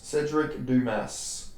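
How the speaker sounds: slow, settled Cedric Dumas with "doo-mass"; careful pronunciation. Real, not acted. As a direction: say the full name slowly to lock it in. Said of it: "excuse me for this pronunciation".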